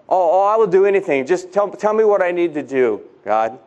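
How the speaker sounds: eager pleading. Acted. Jack eager to obey God.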